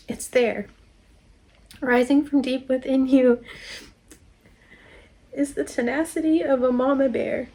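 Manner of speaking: measured, emphatic card reading; reading aloud. Real, not acted.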